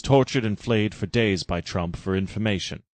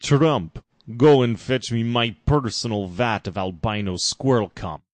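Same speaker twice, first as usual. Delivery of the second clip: commanding order; 4 dB louder than usual. Acted. Farshnook orders Trump.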